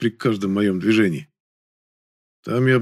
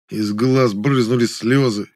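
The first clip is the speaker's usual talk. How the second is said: usual speaking voice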